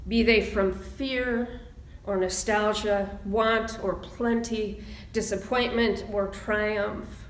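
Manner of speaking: poem reading. Acted. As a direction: let each line land, pausing between.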